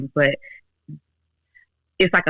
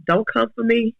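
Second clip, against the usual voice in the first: sassy mock warning, pitched up; imitating her own defensive snap at her daughter; a touch of retold attitude, higher; 7 semitones higher than usual. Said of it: "I almost got an attitude".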